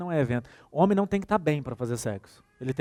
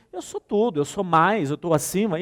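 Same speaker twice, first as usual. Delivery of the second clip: a touch of lording it over; mildly haughty mock boss; mock superiority; 3 semitones higher, 5 dB louder than usual. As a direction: play the one looking down on the child. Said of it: "só de cima pra baixo é uma linguagem corporal".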